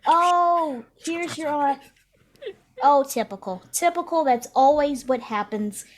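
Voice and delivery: high, loud mock bad-connection voice; breaking up. Ancestor complaining as the spirit connection breaks up. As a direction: play the line cutting out. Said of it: "it's going fuzzy".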